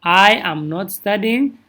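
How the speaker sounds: a slow, careful repeat; steady teacher repetition; slow model sentence. Shown as a demonstration. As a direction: model it again slowly for the class. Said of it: "Inta I haddaad ku darto".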